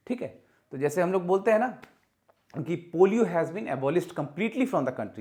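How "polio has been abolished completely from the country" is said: slow, deliberate wrong sentence; wrong example, slow. Shown as a demonstration. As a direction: read the mistake slowly. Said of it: "नहीं".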